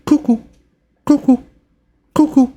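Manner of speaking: high-pitched two-note cuckoo calls; imitated cuckoo sound. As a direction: chirp a small repeating alarm, far above normal voice. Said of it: "you start to hear a buzzing sound".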